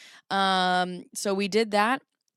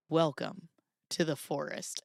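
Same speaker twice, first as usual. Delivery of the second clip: Jurassic Park guide; 3 semitones lower, 5 dB quieter than usual. Retold or imitated. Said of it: "like the guy in Jurassic Park".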